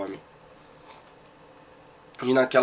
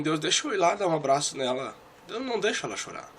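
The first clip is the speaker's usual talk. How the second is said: retold plea; 3 semitones higher than usual. Man begs God to let him comfort her, pleading.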